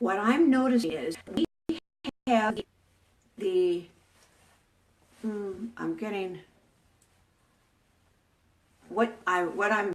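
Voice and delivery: halting, stuttering speech. Losing the thread mid-sentence while the internet keeps fading: stuttering. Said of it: "I'm stuttering here".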